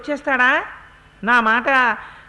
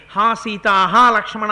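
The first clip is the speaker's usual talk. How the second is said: louder cry of Ha Sita, Ha Lakshmana; mimicked cry in Rama's voice; 7 dB louder than usual. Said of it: "రాముడి కంఠం mono action చేసి".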